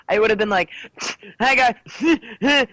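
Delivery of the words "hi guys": a hint of a sick, gruff dude; imitating a man's rough cold voice. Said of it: "I sounded like a total dude".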